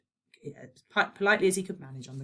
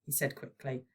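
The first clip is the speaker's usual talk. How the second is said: plain reading voice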